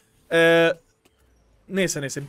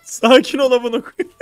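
laughing exasperated plea; 5 semitones higher, 4 dB louder, slower than usual. Real, not acted. Coach laughing at frantic teammate.

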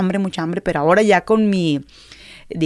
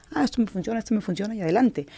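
whispered inner voice; 6 dB quieter, faster than usual. Retold or imitated. Recalled inner voice filtering idols.

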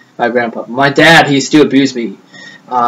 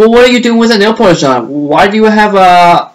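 higher, imitated startled questioning; retold disbelief; 6 semitones higher than usual. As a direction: act out a taken-aback parent's question. Mother questioning the nail polish.

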